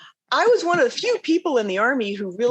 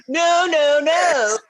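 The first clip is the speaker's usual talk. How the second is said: higher-pitched, emphatic contradiction; mock firm refusal; 9 semitones higher, 3 dB louder, much slower than usual. Colonel contradicting three-star generals in briefings, mock firm refusal. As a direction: cut the generals off, playfully defiant.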